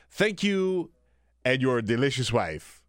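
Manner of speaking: clumsy mock French accent; bad French accent. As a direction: imitate a Frenchman badly, sounding a bit like Borat. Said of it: "my French accent sounds kinda like Borat".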